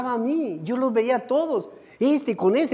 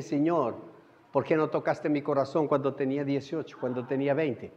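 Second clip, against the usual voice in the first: retold prayer; 8 semitones lower, 6 dB quieter than usual. Retold plaintive prayer to God.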